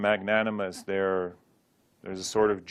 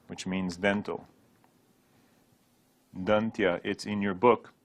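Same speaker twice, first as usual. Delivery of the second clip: normal talking voice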